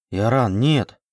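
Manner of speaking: plain reading voice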